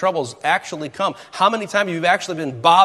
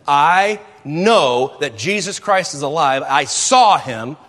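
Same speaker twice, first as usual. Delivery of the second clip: slow, firm, sincere witness; earnest testimony; 2 semitones lower, 3 dB louder, slower than usual. Retold or imitated. Paul tells the guard he saw Jesus, slow and sincere. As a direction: testify with calm conviction.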